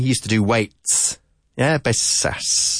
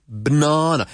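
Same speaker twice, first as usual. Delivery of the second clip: BANANA as "buh-NAH-nuh", raised pitch; teacher's model "ba-NA-na"; second-syllable stress; 4 semitones higher than usual. Shown as a demonstration. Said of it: "¿qué sílaba enfatizamos?".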